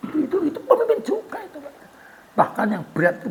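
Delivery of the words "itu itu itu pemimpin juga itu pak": quick, high, laughing through words. Real, not acted. Preacher laughing with congregation at his joke, laughing. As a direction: chuckle it out fast.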